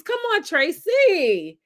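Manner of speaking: usual speaking voice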